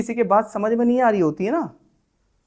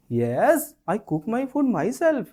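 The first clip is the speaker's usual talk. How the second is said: gentle reply; 4 semitones higher, much slower than usual. Shown as a demonstration. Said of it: "प्यार से बात करनी है".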